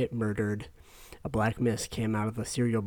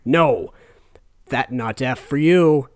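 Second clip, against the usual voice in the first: gruff fat man; 7 dB louder, slower than usual. Acted. Fat man blocks the sale.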